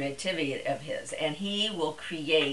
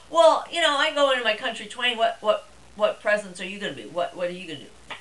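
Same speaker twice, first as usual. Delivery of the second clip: imitating husband; 5 semitones higher, faster than usual. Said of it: "then he says to me".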